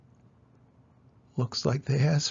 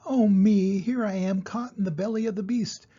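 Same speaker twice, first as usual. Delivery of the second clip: lament; 5 semitones higher than usual. Acted. Mouse laments in the wolf.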